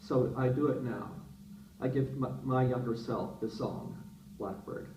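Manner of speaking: measured, deliberate recital with pauses; story reading. Acted. Writer gives younger self a song, measured reading. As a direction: read each phrase out and let it settle. Reads closing of own story.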